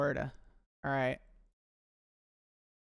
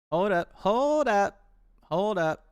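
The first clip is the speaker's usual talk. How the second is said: urgent hold up; 6 semitones higher, 8 dB louder than usual. Real, not acted. Urgent stop while searching.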